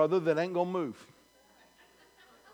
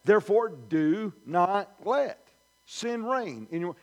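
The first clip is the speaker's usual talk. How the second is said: slow weighty reading; slower than usual. Shown as a demonstration. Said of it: "hear the power in that verse".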